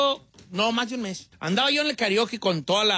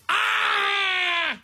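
high, held cry of "ah"; hammed-up drawn-out wail; long mock wail; 10 semitones higher than usual. Shown as a demonstration. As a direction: let out one long, high fake bawl. Demonstrating how a man should cry out.

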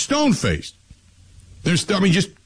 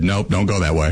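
laughing GPS; 8 semitones lower than usual. Retold or imitated. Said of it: "And it said".

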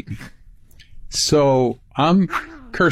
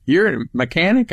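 quoting the star in a raised, amazed voice; imitating a singer; 8 semitones higher than usual. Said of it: "he said".

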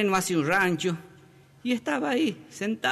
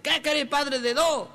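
high, drawn-out exasperated retort; mock angry; 7 semitones higher than usual. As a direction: answer back slowly in hammed-up annoyance. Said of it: "Y ella, enojada".

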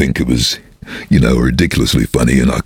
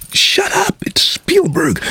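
whispering; slower than usual. Retold or imitated. Producers' warning, unvoiced.

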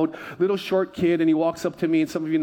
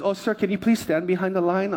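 a hint of a polite official, pitched up; airline lady. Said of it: "and the lady goes".

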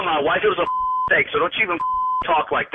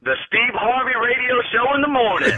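raised, laughing shout-out; enthusiastic show plug; 4 semitones higher than usual. Real, not acted. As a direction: answer the host like a delighted fan. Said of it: "What is the baddest radio show".

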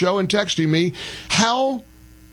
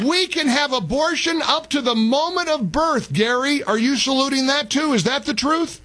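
mocking, raised pitch; 6 semitones higher than usual. Mocking governor then needling Gary.

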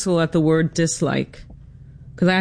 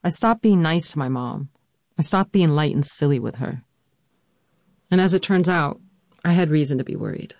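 measured, scripted storytelling read; personal essay narration. A narrator's reading. Daughter narrates her mother's illness for listeners, composed narration. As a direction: narrate your family's hard history with composure.

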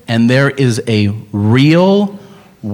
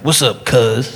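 lightly voiced Seagal; slower than usual. Seagal pandering to Black people.

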